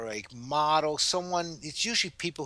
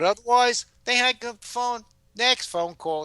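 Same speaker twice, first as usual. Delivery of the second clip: indifferent phone caller; 10 semitones higher, 5 dB louder than usual. Retold or imitated. Caller hangs up, moves on.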